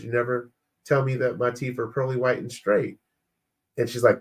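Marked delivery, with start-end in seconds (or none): 0.0-3.0 understated, toned-down defensive quote; innocent restatement. Retold or imitated. Husband defending his words to wife, mildly matter-of-fact. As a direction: repeat it as if it were harmless. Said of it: "all I said was".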